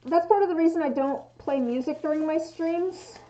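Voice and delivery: muffled through a respirator; through an n95 mask. Real, not acted. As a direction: speak behind a face mask. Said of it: "difficult to understand me with the respirator on".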